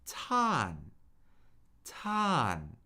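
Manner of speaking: fourth-tone "tan", a clean downward fall. Shown as a demonstration. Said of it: "a steady fall down".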